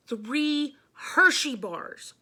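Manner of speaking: very slow, loud, high reveal; grand reveal. Acted. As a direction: draw out the big surprise. Teacher reveals candy.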